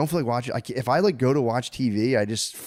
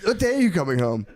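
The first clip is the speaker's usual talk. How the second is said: put-on child calling dad; 9 semitones higher than usual. Child on FaceTime asking after dad, high pleading shout. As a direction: imitate a small child calling out.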